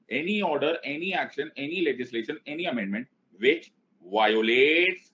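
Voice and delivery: chanted list, stretching the last word; lilting items, landing drawn-out on the final word; dictation for repeating. Shown as a demonstration. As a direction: lead a class chant phrase by phrase. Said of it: "उसको बोलना start करो".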